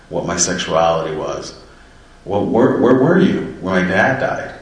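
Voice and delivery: pleading, insistent questioning, mildly angry; retold anger at God. Speaker questioning God on a park bench, mildly angry. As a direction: repeat the question as a restrained accusation. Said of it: "I also was still angry with God".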